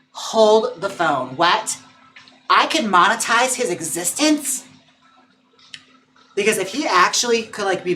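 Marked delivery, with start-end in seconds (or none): 0.1-4.6 slow, louder, stunned disbelief; amazed. Real, not acted. Streamer learns her dog could earn money, stunned and slow. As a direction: let each word land in shock.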